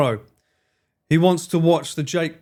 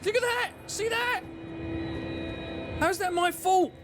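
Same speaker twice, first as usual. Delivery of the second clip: excited exclaim; 12 semitones higher, 6 dB quieter than usual. Real, not acted. Excited game reaction.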